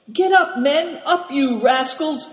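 high, loud rousing shout. A narrator's reading. Good Fortune shouting to wake the sleeping men. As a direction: bellow the men out of bed. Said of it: "shouted Good Fortune".

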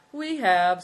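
loud, curt irritation; irritable. A narrator's reading. Good Fortune answers Mate's request for time, loudly irritable. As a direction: answer with impatient extra force. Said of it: "said Good Fortune irritably".

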